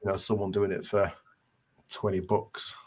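ordinary talk

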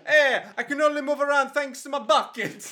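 put-on high, laughing old man voice; silly old man voice. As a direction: play the body-swapped caretaker. Voicing caretaker in mop body.

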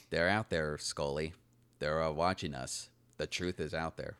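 lightly voiced Gary Shandling as Mulder, low-key; Gary Shandling impression. Joking to his co-host, a light Gary Shandling impression. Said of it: "That's my, uh, Gary Shandling right there".

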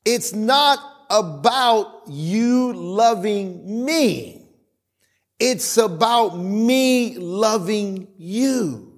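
slow, gentle voice of God; God telling his people, slow and gentle. Retold or imitated. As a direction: speak as God, slow and patient. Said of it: "But God has been telling us".

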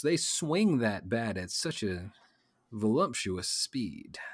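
mock sultry. Sultry slow description.

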